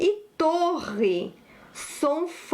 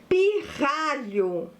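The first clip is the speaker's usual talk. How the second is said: "pirralho" said slowly, sound by sound; slow dictation; slower than usual. Shown as a demonstration. Teacher presents a new word to pupils, slow dictation.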